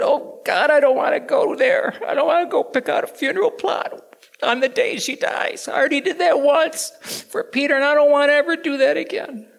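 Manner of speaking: loud, anguished pleading to God; desperate cry. Retold or imitated. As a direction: beg God not to make you go there. Retold desperate plea to God.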